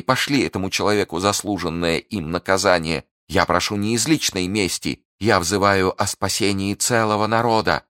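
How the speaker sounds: high, fervent appeal to heaven; impassioned Milady. Acted. Prisoner asking God to punish the duke, fervent and high.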